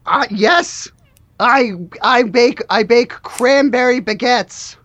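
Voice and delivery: halting, slightly awkward slacker chat; lightly played oddball employee opening up; lightly voiced worker. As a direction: share a hobby haltingly, lightly in character. Plays the worker chatting.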